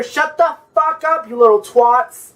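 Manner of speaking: hammed-up angry woman telling kids to shut up; mock screaming woman. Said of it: "She was screaming out of the top".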